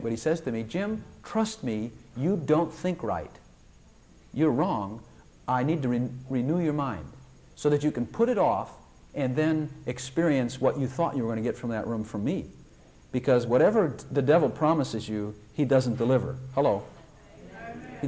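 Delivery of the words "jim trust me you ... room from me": put-on a tender, unhurried God comforting a stubborn child; gentle. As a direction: speak as a patient loving God, softly. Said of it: "very gently".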